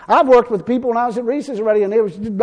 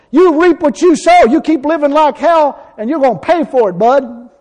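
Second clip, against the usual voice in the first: loud warning; 4 semitones higher, 4 dB louder than usual. Acted. Preacher warning sinners.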